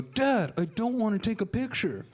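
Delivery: put-on a bored kid whining no; whiny kid.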